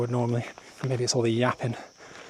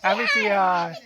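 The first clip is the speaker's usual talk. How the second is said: high friendly greeting. Real, not acted. Greeting locals at festival.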